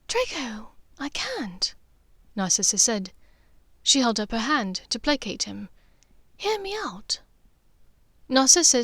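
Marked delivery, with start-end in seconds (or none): 0.1-1.7 gentle hushed no from a mother; Narcissa, soft refusal. Acted. Narcissa voiced by narrator. 6.4-7.2 a breathy, higher hear me out; mother calming her angry son; Narcissa, hushed plea. Acted. Narcissa voiced by narrator.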